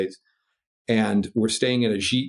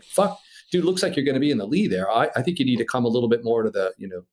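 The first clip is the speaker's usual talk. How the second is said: urgent warning; faster than usual. Retold or imitated. Pilot urges Phil on the radio, fast and urgent. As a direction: rush to talk him out of it. Arguing wind direction on radio.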